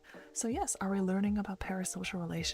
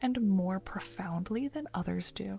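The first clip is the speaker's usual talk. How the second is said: put-on Valley Girl voice; 2 semitones higher than usual. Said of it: "You redeemed Valley Girl".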